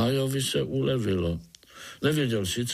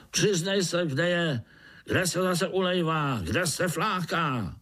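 higher stern ant voice; ant overseer; 8 semitones higher than usual. Acted. Overseer demanding where Artur hides, stern. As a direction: interrogate like a foreman.

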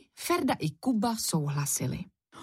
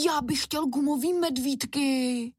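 put-on little boy; 7 semitones higher than usual. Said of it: "přidal se Ferda".

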